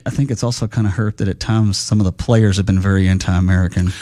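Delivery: low fake voice with cigar. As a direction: talk around a cigar in mouth. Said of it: "Do you like my fake voice?".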